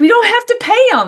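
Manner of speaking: very high, all-excited exclamation. Retelling what he said about the apprentice idea, imitating someone excited. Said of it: "And he's all excited".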